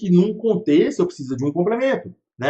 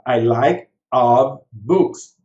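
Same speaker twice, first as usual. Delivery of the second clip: slow mock wrong sentence; 4 semitones lower, 4 dB louder, much slower than usual. Shown as a demonstration. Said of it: "eu falaria assim".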